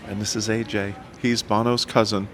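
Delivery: imitated Irish roadie making an introduction; Irish accent. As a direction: keep up the put-on Irish accent. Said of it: "you like my Irish accent?".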